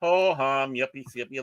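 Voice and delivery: flat, unimpressed yippee; bored sarcasm. Retold or imitated. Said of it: "kinda sitting there like".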